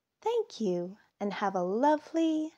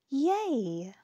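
cheer; 5 semitones higher than usual. Acted. Mouse cheers in story.

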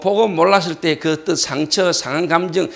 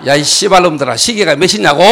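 loud, cursing outburst; angry yell; 6 dB louder than usual. Retold or imitated. Pastor berates players over the time, angry yell. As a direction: bellow at them for the time. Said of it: "소리 한번 지르고".

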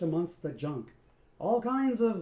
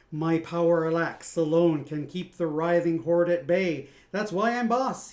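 louder, a touch of a threatening boss; glaring; 6 dB louder than usual. Acted. Scat glares at Sprock, loud menacing boast. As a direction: lay down who is in charge. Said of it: "he glared at Sprock".

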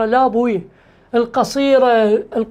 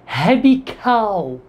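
slow demo; 3 semitones lower, much slower than usual. Shown as a demonstration. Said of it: "ها، هبي شنو هو؟".

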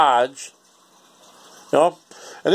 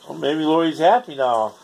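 ordinary talk, nothing marked

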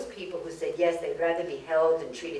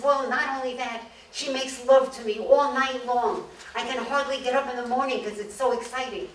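higher-pitched mock-tearful voice; crying man; 7 semitones higher than usual. Crying man tells a visitor about his new wife, mock tearful. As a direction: lightly play a man crying through his good news. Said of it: "Why are you crying?".

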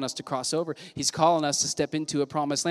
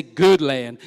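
call-back; 4 semitones lower, 6 dB louder than usual. Shown as a demonstration. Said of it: "Somebody say".

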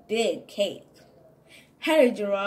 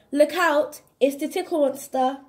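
playful alarm; 5 semitones higher, 4 dB louder than usual. Acted. Warning of the monster's arrival.

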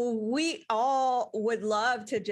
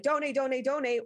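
higher-pitched, lightly hyped chant; mock hype-up; 5 semitones higher, faster than usual. Speaker imitating a fundraiser hyping up donations, mock hype. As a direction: repeat it like a mild hype pitch. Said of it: "It's not to hype up".

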